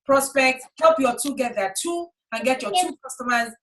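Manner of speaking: drawn-out, relaxed instructions; slow lazy goal-setting. Retold or imitated. Mentor mimicking a lax pitch to recruits, slow and easy. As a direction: spell out the goals slowly as if there is no rush. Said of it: "But if I say to them".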